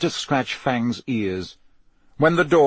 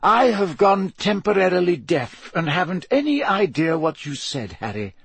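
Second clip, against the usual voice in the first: put-on higher, genial old headmaster voice; lightly amused elderly wizard; Dumbledore voice; 6 semitones higher than usual. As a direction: play the wise old headmaster, gently teasing.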